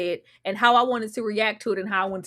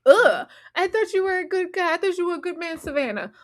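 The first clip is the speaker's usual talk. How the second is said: disgusted; 7 semitones higher than usual. Retold or imitated. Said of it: "I'm sure she feels like the ick".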